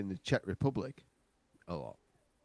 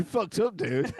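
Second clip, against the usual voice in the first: amused jab; 10 semitones higher, 7 dB louder than usual. Real, not acted. Friend reacts to punchline.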